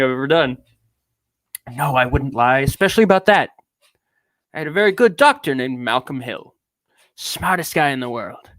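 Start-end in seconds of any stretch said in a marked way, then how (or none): 1.7-8.5 grand, affected British delivery; lightly pompous British character; British accent. Acted. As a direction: put on a theatrical British accent. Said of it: "I don't know why he's British now".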